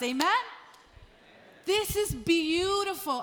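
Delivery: emphatic preaching with punched key words; impassioned preaching. Real, not acted. Pastor urging the church on family love, impassioned preaching. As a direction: drive each point home to the congregation.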